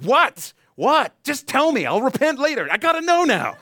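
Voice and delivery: high, loud, desperate begging; eager pleading. Retold or imitated. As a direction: beg like you can't wait another second. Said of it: "You're like".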